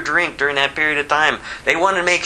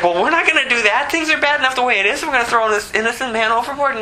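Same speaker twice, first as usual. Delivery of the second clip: higher, fast, worked-up objection; protesting sailors; 8 semitones higher, faster than usual. Acted. Sailors refuse to throw Jonah overboard, fast high protest. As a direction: refuse in rushed disbelief.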